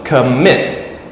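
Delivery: "commit" with MIT stressed and rising; stress on second syllable. Shown as a demonstration. Teacher giving an example of the rule, second-syllable stress on "commit". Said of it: "if the stress is on the second".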